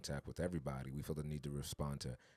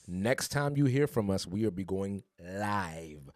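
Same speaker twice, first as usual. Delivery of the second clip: put-on slow, lightly Haitian-accented announcement; a hint of Haitian accent, drawn out; 3 semitones higher, 5 dB louder, slower than usual. Host announcing the live show, in a light Haitian accent. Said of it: "with my little Haitian accent".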